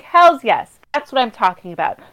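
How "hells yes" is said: excited cheer. Retold or imitated. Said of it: "I'm like".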